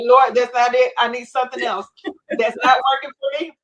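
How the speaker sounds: loud pleading complaint to the Lord; retold plea. Begging the Lord for something else, loud plea. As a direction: push back hard, refusing the answer. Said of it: "I'm like".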